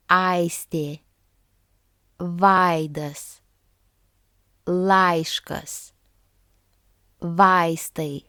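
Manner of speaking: the "ai" in each word weighted on a, as in "aidas"; careful word list, leaning on the a of "ai"; stress on first vowel. Shown as a demonstration. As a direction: say "vaidas" and the rest with a prominent a before the i. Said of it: "the stress was on the first vowel".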